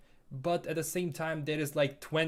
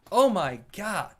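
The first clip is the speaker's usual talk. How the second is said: amazed oh my god; 5 semitones higher, 9 dB louder, slower than usual. Real, not acted. Reacting to many countries in chat.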